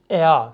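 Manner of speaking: "اا" as an open vowel glide, no r; correct German er. Shown as a demonstration. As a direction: model "اا" with the final r dropped.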